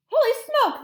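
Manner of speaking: very high, loud outcry; high-pitched shock at full volume; panicked yell. Acted. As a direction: yell it in comic alarm. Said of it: "the man was yelling".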